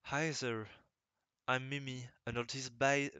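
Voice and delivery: English read with a thick French accent; first halting take of a rusty English self-introduction. Shown as a demonstration. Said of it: "mon anglais est rouillé".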